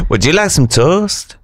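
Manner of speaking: put-on Mexican accent. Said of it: "Nacho Libre".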